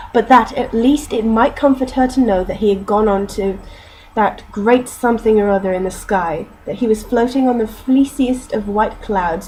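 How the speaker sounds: steady storybook reading; story narration. A narrator's reading. Reading Douglas Adams to listeners, steady narration. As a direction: narrate the novel passage evenly.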